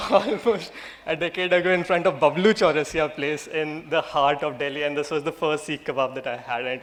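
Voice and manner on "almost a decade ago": almost said again through a laugh; laughing repeat. Shown as a demonstration. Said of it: "Emphasis on the word almost".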